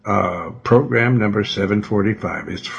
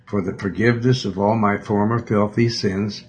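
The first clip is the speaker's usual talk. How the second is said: prayer. Real, not acted. Leads a sinner's prayer.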